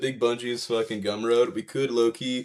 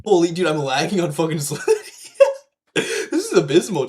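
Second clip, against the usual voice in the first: hyped gamer bro; 5 semitones higher, 5 dB louder, slower than usual. Real, not acted. Lagging badly in game.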